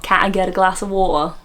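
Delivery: tentative Cockney question. Shown as a demonstration. Host settling on her version, tentative Cockney. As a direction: another go at a Cockney accent. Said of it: "do the Cockney accent".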